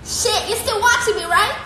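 surprised. Real, not acted. Surprised at the dog.

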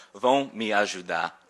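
normal talking voice

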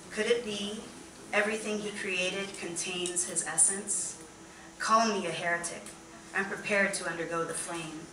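measured recital with pauses between phrases; poetry reading. Acted. Poet reads of forbidden love, measured recital. Reads poem called haram.

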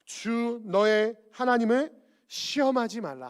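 slow, solemn command; measured scriptural rebuke, each phrase drawn out; Jesus answering Satan. Acted. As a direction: pronounce it slowly with grave authority. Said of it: "예수님께서 하나님을 시험하는 이 사단에게 이렇게 대답하시죠".

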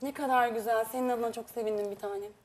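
sugary, insincere praise; honeyed and plainly fake; fake sweet. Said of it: "Yapmacıklıktan hiç hoşlanmıyorum".

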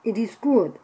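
sudden loud delight; surprised. Real, not acted. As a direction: blurt it out, surprised. Surprised by the taste.

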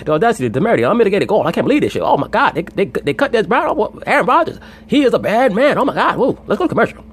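high, loud, frantic hype-man rant; Stephen A impression. Mimicking Stephen A for his co-host, loud and high. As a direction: crank it up like a TV sports screamer. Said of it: "And my motherfucker be like".

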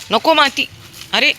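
high, loud call to the dog. Real, not acted. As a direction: call him off sharply. Scolding dog off the dirt. (कुत्र्याला मोठ्याने हाक)

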